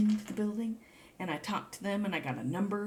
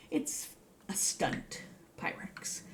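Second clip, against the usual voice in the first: slow hushed whisper; secret whisper; 4 dB quieter, slower than usual. Real, not acted. Confiding to viewers about the fake dish, in a slow whisper. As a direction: let them in on a little secret.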